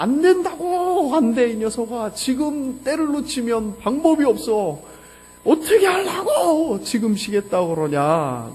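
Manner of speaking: high, loud, drawn-out retold outburst; angry father's shout. Father refusing to let his exhausted son rest, angry shout. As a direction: thunder a refusal, stretching the words.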